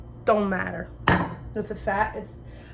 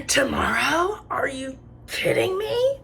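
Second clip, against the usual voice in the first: imitating a mom's big gasp, then high disbelief; hammed-up gasping mom, pitched high; mom's shocked reaction; 6 semitones higher, 3 dB louder, slower than usual. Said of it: "my mom's like".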